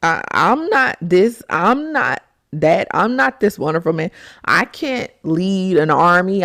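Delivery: a hint of an insecure man listing his flaws, slowing down; understated whiny doubt; timid Gideon. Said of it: "he was like".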